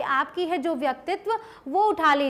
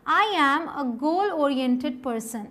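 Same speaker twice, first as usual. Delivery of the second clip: slow model sentence; much slower than usual. Shown as a demonstration. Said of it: "क्या use करना है देखिए".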